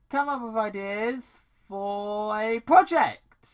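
mock-nervous girl voice; nervous reply. Paige answering her father, nervously. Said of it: "Paige replied nervously".

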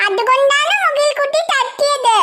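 a hint of a tattling child, slow; small girl telling on mummy, drawn out; lightly voiced little girl. Maina tells father it was mother's fault, slow and childlike.

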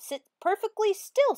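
high, loud strict command; shrill Miss Swamp order. A narrator's reading. Teacher ordering pupils, high and loud. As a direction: bark the rule at them. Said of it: "said Miss Swamp".

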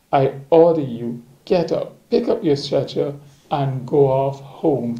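measured, emphatic Gospel reading; scripture reading. A narrator's reading. Reader shares a Gospel passage with listeners, measured scripture reading. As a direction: read the passage out steadily and clearly.

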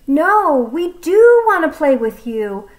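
stalling before breaking bad news; hesitant Piggy. Piggy explaining to the snake, awkward and hesitant.

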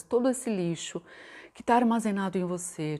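normal talking voice

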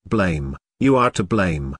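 a worn-out rasp, dragged out tiredly; hoarse, exhausted voice. Acted. Drunk caller blaming the radio host, hoarse and exhausted. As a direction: sound spent, with a light hoarseness. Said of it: "a hoarse and exhausted voice".

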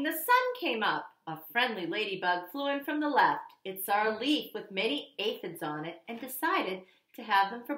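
put-on lively read-aloud for kids; storybook narration; story reading. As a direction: paint the scene for kindergartners. Reads picture book aloud.

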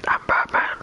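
loud, rasped superhero growl; Batman. Acted. Streamer mimicking the hero his voice resembles, growling. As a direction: growl it like a masked vigilante. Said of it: "I sound like Batman".

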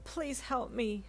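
high, slow tearful plea; drawn-out, acted sob; sobbing plea. A narrator's reading. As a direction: plead slowly as if sobbing. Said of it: "she sobbed".

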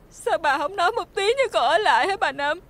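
tearful, desperate pleading; crying plea. Acted. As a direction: plead as tears rise. Fired servant pleads, crying.

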